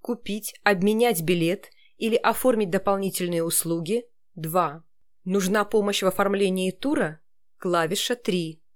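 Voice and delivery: even automated phone menu read. Shown as a demonstration. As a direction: read it like a call centre prompt. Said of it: "А как нужно вам?".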